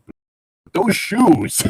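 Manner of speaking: drawn-out high gasp of awe; mock awe. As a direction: stretch it out in high mock amazement. Mocking a character's shoes.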